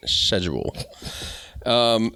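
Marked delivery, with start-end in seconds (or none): 0.1-0.8 "Schedule" as "shed-jool", falling at the end; sh-pronunciation of schedule. Shown as a demonstration. Host settling how to say it, "Schedule" as "shed-jool". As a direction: say "Schedule" with sh, no k sound. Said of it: "that's how I say it".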